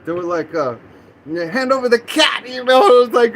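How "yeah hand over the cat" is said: mock police order, pitched up; raised-voice retold command; demanding cops. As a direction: act out cops making a demand. Voicing police demanding the cat.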